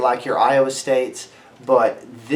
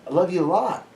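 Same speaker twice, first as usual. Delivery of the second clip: mock sweet reassurance; 6 semitones higher than usual. Mock reassuring affection to women.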